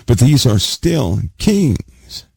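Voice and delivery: "these are still kings" slowed, "these" leaned on; insisting on "kings" to the hall; slow emphasis. Shown as a demonstration. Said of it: "I'm emphasizing what the word says".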